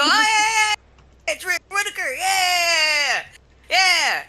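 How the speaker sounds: high, loud mock-excited squeal of recognition. Friend squealing to a stranger about a mutual acquaintance, high and excited. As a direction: squeal it out like spotting an old classmate.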